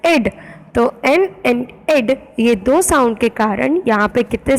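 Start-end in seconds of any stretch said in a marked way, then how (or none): 0.1-0.3 "ed" said alone as the ending sound; isolated sound. Shown as a demonstration. Teacher isolating the second of two sounds, syllable demo. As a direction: sound out "ed" by itself. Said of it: "second is".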